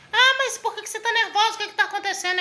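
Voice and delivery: high-pitched retold questioning; startled secretary. Acted secretary questioning the upset caller.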